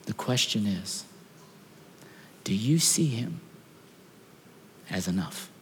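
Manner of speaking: soft whisper to the congregation; hushed question. Acted.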